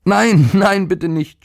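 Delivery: put-on high, panicked boy pleading no; a scared child begging it to stop; high desperate no that fades into a plea; frightened cry. A narrator's reading. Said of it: "schrie der Junge".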